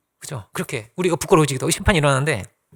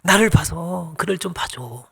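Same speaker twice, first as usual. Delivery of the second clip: soft motherly plea; slower than usual. Acted. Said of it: "그렇게 쓰는 거예요".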